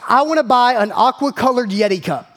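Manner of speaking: retold child's firm declaration; definitive. Daughter telling dad what she'll buy, definitive. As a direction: state it decisively, imitating a daughter. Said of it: "it was definitive".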